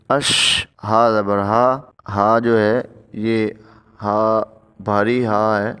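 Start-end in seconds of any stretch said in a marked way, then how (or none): 0.1-0.7 اش with a hissing, whistling ش; whistled sh. Shown as a demonstration. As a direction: let the ش whistle. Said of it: "شین میں سیٹی کی آواز آئے گی". (سیٹی والی شین)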